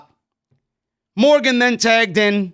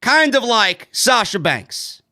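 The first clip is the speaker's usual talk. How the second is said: mock snooty; 3 semitones higher, slower than usual. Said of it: "She tasted it and says".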